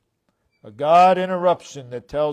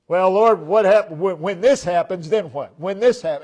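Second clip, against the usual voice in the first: fretful pestering; 5 dB louder than usual. Retold or imitated. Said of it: "on and on we go".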